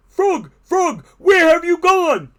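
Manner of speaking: high, desperate shout; distressed cry. A narrator's reading. Toad spins in the dark seeking Frog, high shout. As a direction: call out for a lost friend. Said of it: "cried Toad".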